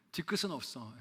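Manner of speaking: laughing mockery of a cliche; mocking laugh. Pastor mocking people who say they hold no grudge, laughing. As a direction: scoff at the phrase with a laugh. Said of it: "그 말 너무 싫어요".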